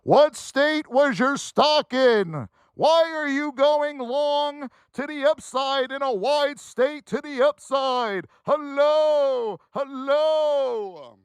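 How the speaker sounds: slow, scolding voice from above; God yelling back. Retold or imitated. God answering the trader's prayer, slow scolding. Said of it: "he's yelling back".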